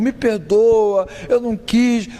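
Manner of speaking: begging forgiveness. Retold or imitated. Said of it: "vai pedir perdão por tudo".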